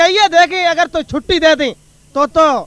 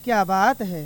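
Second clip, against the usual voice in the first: lightly voiced mother, a bit lower and softer; mother answering her son, a touch lower; mother's voice; 4 semitones lower, 5 dB quieter than usual. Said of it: "ओ री अम्मा".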